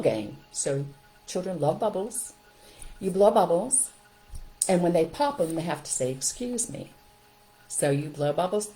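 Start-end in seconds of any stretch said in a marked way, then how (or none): 6.1-6.9 soft, raised sing-song apology; cheerful little apology; high playful "excuse me". Shown as a demonstration. Child popping bubbles.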